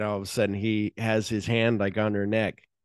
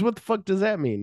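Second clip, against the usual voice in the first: much higher, incredulous question; baffled; 11 semitones higher than usual. Retold or imitated. Louis puzzled by Ordell's answer, high incredulous. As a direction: disbelief pitched high.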